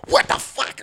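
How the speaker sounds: retold angry disbelief; exasperated reenactment; mock mad. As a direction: spit it out like a fed-up viewer. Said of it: "I was all mad".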